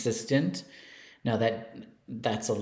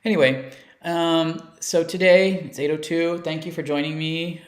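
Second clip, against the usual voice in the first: loud, high, manic showman; crazy voice; 6 semitones higher, 6 dB louder than usual. Pretend. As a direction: burst in wild and unhinged. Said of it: "in my crazy voice".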